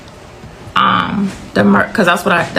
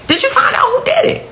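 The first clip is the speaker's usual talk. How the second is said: higher and fast, pleading repeat; mother demanding answers from the officer; retold frantic repeat; faster than usual. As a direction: push the question again in rising panic. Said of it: "My exact next question to the officer is".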